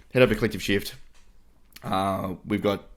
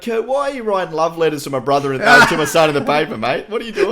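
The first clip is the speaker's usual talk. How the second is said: imitating dad; 8 semitones higher, 11 dB louder than usual. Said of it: "he's like".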